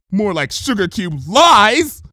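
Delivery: a loud slow mocking retort; bitter jibe. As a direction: spit out the pun.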